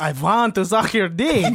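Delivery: put-on lightly camped vampire accent, laughing; mock vampire with a laugh in it; gay Dracula. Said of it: "What do you think gay Dracula sounds like?".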